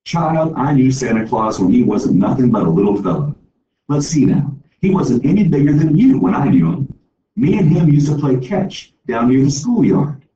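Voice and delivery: lightly voiced old woman spinning a tall tale; teasing the child with a fib; playful old storyteller.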